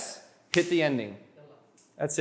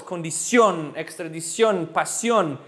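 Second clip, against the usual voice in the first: condición, extradición, pasión, each stressed on its last syllable; stress on final syllable; slower than usual. Shown as a demonstration. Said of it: "have an accent over the O".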